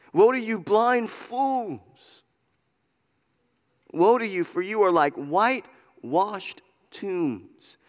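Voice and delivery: slow, drawn-out words of woe; preaching rebuke. Acted. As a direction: pronounce the woe, stretching key words.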